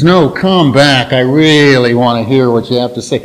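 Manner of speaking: lightly mock "I really want to hear what you have to say" as if you don't mean it; mock sarcastic. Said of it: "like he was being sarcastic every time he talked".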